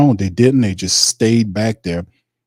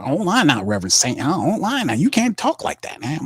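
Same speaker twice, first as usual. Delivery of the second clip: Mickey arguing back; 2 semitones higher than usual. Acted. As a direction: push back at the reverend in disbelief.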